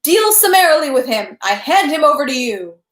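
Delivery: almost shouting. A narrator's reading. Count turning to the people, almost shouting. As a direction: call it out, just short of a shout. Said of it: "he almost shouted".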